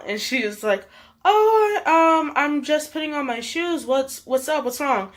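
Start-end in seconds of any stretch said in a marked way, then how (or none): 1.2-5.1 friend's voice. Retold or imitated. Friend answering, voiced higher.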